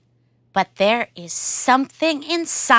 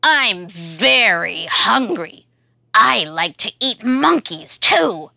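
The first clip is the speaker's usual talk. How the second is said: monster voice. Acted. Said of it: "says the monster".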